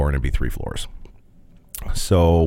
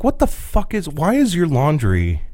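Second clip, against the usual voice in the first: higher, baffled demand; sputtering disbelief; incredulous; 9 semitones higher than usual. Retold or imitated. Asking the roommate why his clothes are bagged, baffled.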